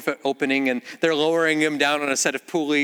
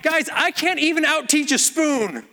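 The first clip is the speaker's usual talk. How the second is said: mock exasperation; 10 semitones higher than usual. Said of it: "And I'm like".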